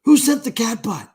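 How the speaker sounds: baffled. Real, not acted. Baffled at a chat gift.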